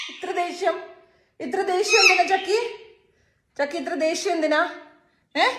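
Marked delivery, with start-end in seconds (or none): 0.1-2.6 laughing question. Real, not acted. Laughing while asking pet.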